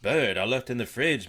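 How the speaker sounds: high, loud fussy wife; shrill fussy Martha. A narrator's reading. Wife grumbling about the bird, high and loud. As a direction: complain like an exasperated housewife.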